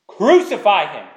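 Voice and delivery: loud cry of the crowd, mob demanding death. Acted. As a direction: call it out like an angry mob. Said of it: "And they cried out again".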